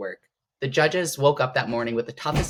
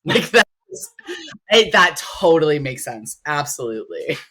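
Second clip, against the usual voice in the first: laughing; 2 semitones higher, 6 dB louder than usual. Real, not acted. Laughing at dream disbelief.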